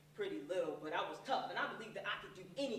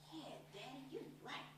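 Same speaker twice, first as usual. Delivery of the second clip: put-on kid's reply; 5 semitones higher, 10 dB quieter than usual.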